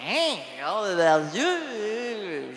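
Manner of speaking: high blurt then slow drawn-out name; dumb young guy. Retold or imitated. Imitating the twenty-five-year-old who never heard of Depardieu, slow and high. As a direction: play the clueless kid, stretch it out.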